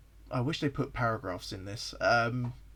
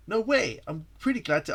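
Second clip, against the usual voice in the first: put-on American accent; 6 semitones higher, 5 dB louder than usual. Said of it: "I'm doing an American accent for myself".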